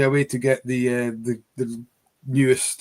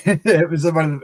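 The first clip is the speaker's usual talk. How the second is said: laughing; 3 semitones higher, 6 dB louder than usual. Real, not acted. Laughing at own attempt.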